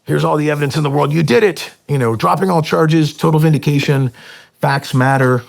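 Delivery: high-pitched, loud mock revelation; imagined Navy delight. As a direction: gush in triumph as if clearing someone's name. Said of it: "the Navy and N S W would be like".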